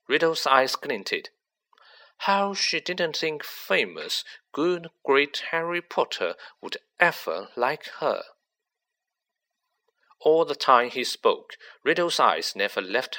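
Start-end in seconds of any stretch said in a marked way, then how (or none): 2.2-8.2 Riddle, cold and smug. Acted. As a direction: let a cold confidence creep in under a light voice. Riddle's voice in the story.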